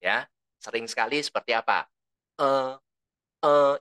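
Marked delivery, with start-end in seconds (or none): 2.4-3.8 demonstrated filler "eh". Shown as a demonstration. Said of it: "itu kata janggut".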